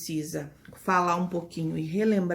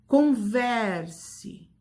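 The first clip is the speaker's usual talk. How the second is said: "Converse" with a long, strong VER; stress on VER. Shown as a demonstration. Teacher asks if they heard, repeats "Converse" stressing VER. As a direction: punch and hold VER in "Converse". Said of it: "que eu pronuncio com mais força".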